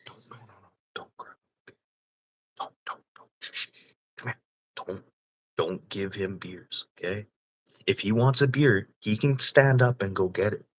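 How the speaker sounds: retold whisper, urgent and secretive; hushed warning. Telling friends to stop serving the drunk guy, whispered. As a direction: whisper the warning so he can't hear. Hushing others not to serve him.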